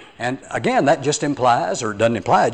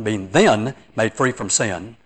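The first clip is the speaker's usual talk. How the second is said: THEN stressed, line taken slowly; 4 semitones lower, 3 dB quieter, slower than usual. Retold or imitated. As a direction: lean on the word "then" as you quote slowly. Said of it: "I emphasize the word then".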